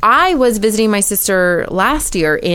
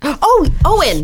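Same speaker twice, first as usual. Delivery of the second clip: gasp, then the name drawn out slowly and higher; sudden realisation, pulled out slow; a dawning oh, the name stretched; surprised gasp; 6 semitones higher, slower than usual. Real, not acted. Suddenly remembers the actor's name.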